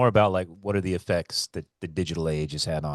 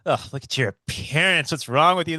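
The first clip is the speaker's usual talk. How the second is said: disgusted sneer; 4 semitones higher, 4 dB louder than usual. Retold or imitated. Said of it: "looking at him and be like".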